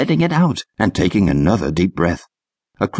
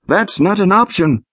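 shouted back; 10 semitones higher than usual. A narrator's reading. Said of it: "he shouted back".

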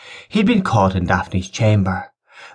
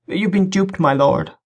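bride's voice; 10 semitones higher than usual. Acted. Veiled bride reveals the deception.

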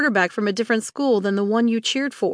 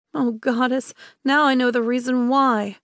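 whiny sigh. Acted. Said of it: "she sighed, on the verge of whining".

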